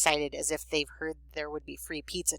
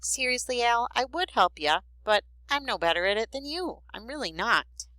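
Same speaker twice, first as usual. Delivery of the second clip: gentle, higher-pitched apology; sweet; 7 semitones higher than usual. A narrator's reading. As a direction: let your sister down gently. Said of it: "his voice is sweet".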